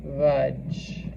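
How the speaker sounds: Hogy vagy drawn out very slowly while writing; dictating at writing speed; slow dictation. Shown as a demonstration. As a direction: spell out each sound of Hogy vagy as you write. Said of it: "So let's write that".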